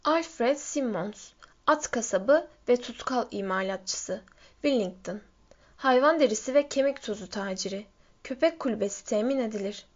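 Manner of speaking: measured, deliberate sign reading; reading a sign aloud. A narrator's reading. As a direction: read out each item separately, with pauses. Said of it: "ölüm sessizliğinin ortasında yazıyı okudu".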